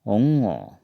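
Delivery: ओंगो said with a nasal ng and a rounded o; ओंगो as Assamese ongo, not Hindi anga; Assamese letter ongo. Shown as a demonstration. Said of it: "अंगा को हम असमिया में पढ़ेंगे". (असमिया उच्चारण में ओंगो)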